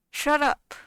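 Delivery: a loud, fed-up snap; angry outburst. Real, not acted. Vlogger telling worried commenters to stop, loud angry shout. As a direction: cut them off hard and loud.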